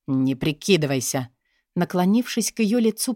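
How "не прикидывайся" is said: low, hissed threat up close. Acted. Boss leaning to Katya's face, low hiss. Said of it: "прошипел босс".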